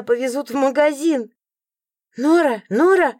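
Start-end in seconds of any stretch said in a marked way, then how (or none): 2.2-3.1 calling. A narrator's reading. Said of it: "позвала я книгу".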